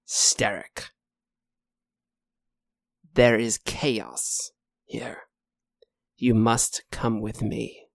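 lightly voiced eerie knight, slow and hushed; slow, half-whispered warning from a creature; ominous knight. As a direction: urge them gravely, with long pauses. Game master voices the knight creature.

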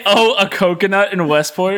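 high, loud ghostly surprise. Retold or imitated. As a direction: gasp it out like a startled ghost. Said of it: "your surprise ghost voice".

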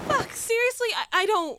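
loud, high, cranky outburst; irritated yell. Acted. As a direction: yell back, hungover and annoyed. Hungover quarrel over bed.

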